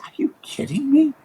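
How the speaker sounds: high whispered retold disbelief; disbelieving whisper. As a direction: breathe it out, stunned and incredulous. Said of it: "I said".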